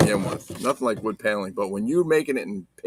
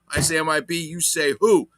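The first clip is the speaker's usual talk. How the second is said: call and response; 6 semitones higher, 4 dB louder than usual. Acted. Call-and-response chant repeated.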